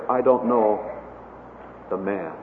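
subdued, sinking away on the last words; weak denial. Retold or imitated. Peter denying Jesus in weakness of the flesh, weak denial. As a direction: let it drop low and soft at the end. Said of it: "in the weakness of, of the flesh".

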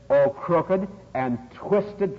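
slow, drawn-out pulpit declamation; very deliberate, weighty quoting; scriptural rebuke. Retold or imitated. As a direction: stretch each word of the quoted rebuke. Preacher quoting Jesus' rebuke.

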